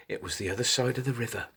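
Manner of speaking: ordinary delivery, nothing marked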